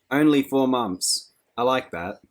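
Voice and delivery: high, loud, slow scornful echo; mocking repeat. A narrator's reading. Fanny mocking Lenina's "only four months", scornful echo. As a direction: throw her words back at her.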